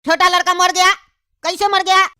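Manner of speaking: high, slow calling shout; hammed-up high shout of alarm. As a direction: call out the news from afar. Neighbour arrives shouting condolences.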